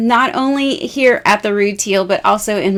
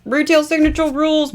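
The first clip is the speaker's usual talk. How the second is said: hashtag cheer; 6 semitones higher, faster than usual. Pretend. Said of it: "Jamie's throwing these hashtags out".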